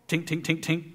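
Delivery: mock tink tink of a spoon on stone; imitated tapping sound. Pastor mimicking the cake's sound, imitated tapping. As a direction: tap out the rock-hard cake with your voice. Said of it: "and I went".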